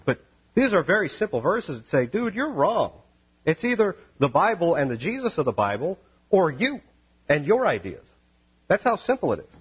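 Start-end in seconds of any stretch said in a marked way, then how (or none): 2.1-8.0 raised, higher voice; blunt rebuttal. Acted. Preacher telling the reverend he's wrong, raised voice. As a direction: call them out, straight and blunt.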